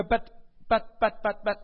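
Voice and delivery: protesting. Acted. Preacher acting out a listener objecting to God, mock protesting.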